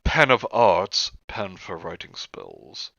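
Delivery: slow list reading, each item falling away; slow, drawn-out reading of an inventory. Acted. Reading a witchy supply list to friends, slow read-out.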